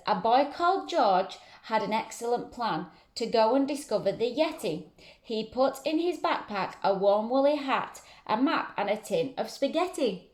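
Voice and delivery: lively storybook read-aloud; reading to children. A narrator's reading. Teacher reading a rhyming book to children, lively. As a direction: read it out to the class with a bouncy rhyme.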